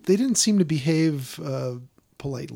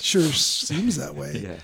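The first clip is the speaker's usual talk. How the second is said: dry sarcasm; much slower than usual. Real, not acted.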